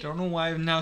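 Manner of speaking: accidental, lightly Swedish accent. Real, not acted. Reader unable to drop the voice, Swedish accent. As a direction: let a mock Swedish accent linger in plain chat. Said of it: "stuck with the Swedish accent".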